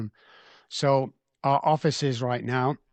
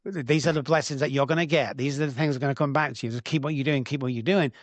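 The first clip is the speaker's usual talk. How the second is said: a booming promise that it's only starting; voice of God answering; 2 semitones higher than usual. Retold or imitated. Retelling the answer he heard while holding his granddaughter, eager and raised. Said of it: "all I kept hearing back".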